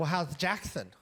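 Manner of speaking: put-on nasal voice, talking through the nose. Retelling to a laughing audience how she kept asking you questions, in a put-on nasally voice. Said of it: "[ Nasally voice ]".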